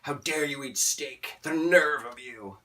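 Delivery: slow, indignant mock protester; a mild mock indignant protester. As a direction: ham up a preachy vegan scolding. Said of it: "protesting at a steakhouse".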